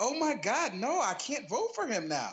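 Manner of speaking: put-on high-pitched elderly church lady voice. Telling a story about a real Christian woman's reaction, imitating an old white lady. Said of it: "she a old white lady".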